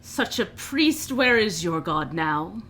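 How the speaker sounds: drawn-out, mocking jab at the priest; scoffing orc. Orc prisoner mocks a fellow captive's faith, scoffing. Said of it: "one of the orcs kinda scoff and go".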